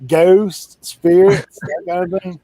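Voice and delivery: emphatic explaining. Retold or imitated. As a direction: spell it out for her. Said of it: "he's like".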